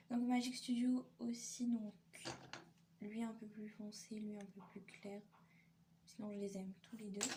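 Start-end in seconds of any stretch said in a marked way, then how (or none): 3.0-5.2 whispered aside about the two shades; soft whispered comparison. Real, not acted. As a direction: drop to a whisper for each shade. Shade comparison read softly.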